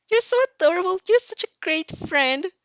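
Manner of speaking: high-pitched, bubbly praise; gushing friend. A narrator's reading. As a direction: squeal it out with adoration. Hagakure gushing at her friend.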